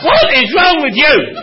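exasperated demand. Retold or imitated. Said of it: "they would ask me".

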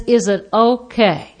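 slow, drawn-out "is it okay"; measured, careful waiter question; waiter's polite question. Retold or imitated. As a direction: imitate a waiter checking on the wine. Voicing the waiter pouring wine.

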